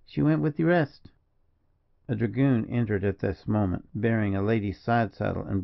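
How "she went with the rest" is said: firm answer, pitched higher. A narrator's reading. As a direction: answer firmly and stand by it. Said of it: "continued firmly".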